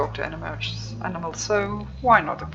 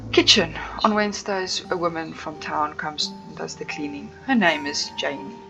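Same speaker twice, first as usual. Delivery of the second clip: aloof tour guide; 2 semitones lower than usual. Acted. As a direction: play the snooty estate owner. Streamer voices guide Tabitha.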